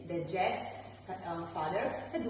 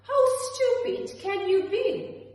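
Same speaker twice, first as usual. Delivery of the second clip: high, loud exasperated shout; scolding; 13 semitones higher, 6 dB louder than usual. A narrator's reading. Mother berating Jack, shrill angry shout. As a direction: berate him, really exasperated.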